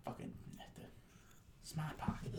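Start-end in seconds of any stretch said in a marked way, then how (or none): 1.6-2.3 hushed mock Boston accent. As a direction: mutter it like a Bostonian, Rs dropped. Mimicking Boston accent again.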